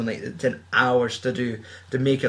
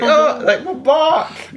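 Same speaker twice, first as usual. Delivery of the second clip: high-pitched mock groan of injury; hammed-up wounded film extra; overacted pain reaction; 14 semitones higher, 4 dB louder, much slower than usual. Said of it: "doing, like, a reaction sound".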